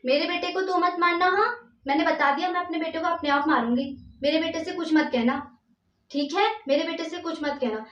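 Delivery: jab each order like a protective mother telling her off; mock angry warning. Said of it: "पर उनका क्या था".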